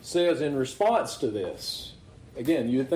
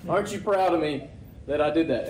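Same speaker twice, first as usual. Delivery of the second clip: mock bragging. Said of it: "he's kinda bragging about it".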